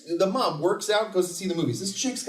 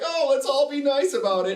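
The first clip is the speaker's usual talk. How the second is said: high, sing-song mock niceness; hammed-up high fake-polite voice; mock cheery hero; 8 semitones higher than usual. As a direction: sneer it sweetly and high.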